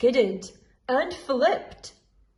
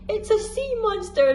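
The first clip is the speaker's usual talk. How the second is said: teasing cry; 10 semitones higher, 4 dB louder than usual. A narrator's reading. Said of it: "they cried".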